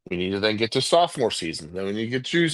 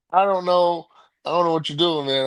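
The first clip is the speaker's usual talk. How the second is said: raised, fed-up disbelief; exasperated; 7 semitones higher, 4 dB louder than usual. Real, not acted. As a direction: throw up your hands at them. Ranting about unprepared tight ends.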